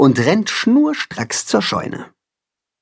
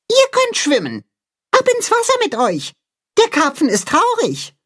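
much higher mole voice, commanding; bossy mole. A narrator's reading. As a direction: order the geese into the pond. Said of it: "befiehlt er".

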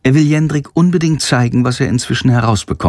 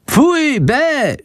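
much higher squealed pfui bäh; disgusted scolding. Acted. Bat Chandor scolding at the farmyard muck, disgusted and high. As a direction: squeal in disgust at the dung heap. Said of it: "schimpft Chandor".

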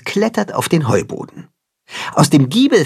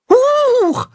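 very high startled yelp; startled squeak; 3 dB louder than usual. A narrator's reading. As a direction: squeak in sudden fright. Startled kid goat yelp.

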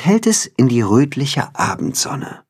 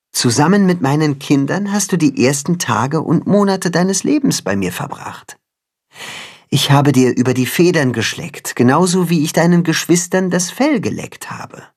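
lightly voiced tender cat, higher; cat mother voice; 6 semitones higher than usual. The cat tells Timme how she raised him, lightly voiced. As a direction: tell it like a caring mother.

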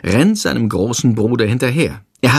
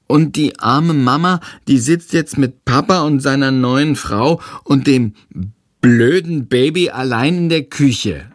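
put-on higher, childlike small boy voice; a little kid asking to join in; little brother; 4 semitones higher than usual. Tom voiced.

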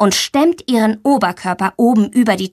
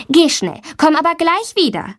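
kind teacher voice, lightly higher; friendly; 7 semitones higher than usual. A narrator's reading. Teacher kindly tells the girl to hurry back, friendly. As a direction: gently send her off, a touch brighter. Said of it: "sagt sie freundlich".

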